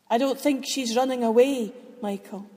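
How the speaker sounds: soothing, unhurried divine reply; patient and calm. Acted. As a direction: gently correct him. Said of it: "God said patiently and calmly".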